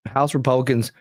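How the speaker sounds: hiccups while reading aloud; reading through the hiccups; hiccuping. Real, not acted. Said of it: "excuse me, I'm hiccuping".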